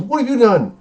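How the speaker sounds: high loud melodramatic wail; mock dramatic. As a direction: ham up the overacted line. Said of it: "the other kid goes".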